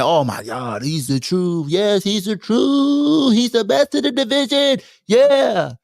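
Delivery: high, slow mock fan gushing. Fickle fan praising the player, slow mock gush. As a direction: gush like a fan after one good game. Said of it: "let your ass ball out one game".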